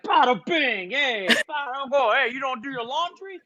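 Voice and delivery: high mock New Jersey Italian voice; wife yelling at the kids, hammed-up Jersey Italian accent; mob-wife Italian. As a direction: scold the kids like a Sopranos mom. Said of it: "she's gonna be like".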